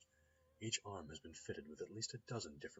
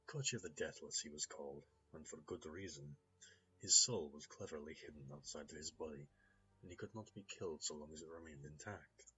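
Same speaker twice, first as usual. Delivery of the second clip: put-on smooth Russian-accented gentleman. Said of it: "There's a hint of a Russian accent there".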